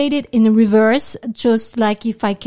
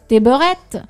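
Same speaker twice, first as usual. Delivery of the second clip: mock slur; 7 dB louder than usual.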